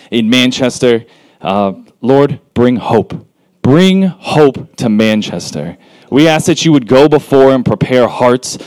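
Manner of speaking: earnest, steady spoken prayer; public prayer. Real, not acted. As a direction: pray aloud for the group, phrase by phrase. Leads a prayer for the event.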